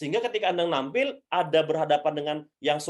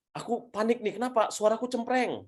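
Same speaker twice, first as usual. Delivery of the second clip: slightly higher-pitched imagined questioner; mild mock worry, pitched up a little; questioner with stage fright; 4 semitones higher than usual. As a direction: lightly act out someone asking for help. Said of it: "Atau misalnya gini".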